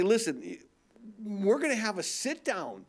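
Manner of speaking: firm, mildly stern sit-down talk. Acted. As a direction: scold with measured displeasure. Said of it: "be a little bit more stern".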